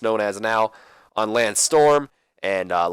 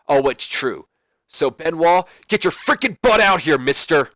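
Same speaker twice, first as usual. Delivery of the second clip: Kurt Angle promo. Retold or imitated. Kurt calling out Benoit.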